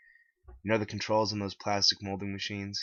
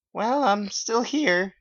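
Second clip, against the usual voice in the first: much higher and slower, weary; slow high old teacher voice; 14 semitones higher, 10 dB louder, much slower than usual. A narrator's reading. Mary Lee Walsh giving her farewell speech, high and slow. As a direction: drag it out like a tired old teacher. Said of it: "she said".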